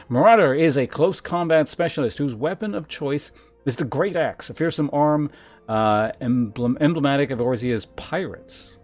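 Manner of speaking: emphatic, measured reading of lore; game text read-aloud. Acted. Streamer reads gladiator class lore to chat, emphatic read-aloud. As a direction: announce each class description with weight.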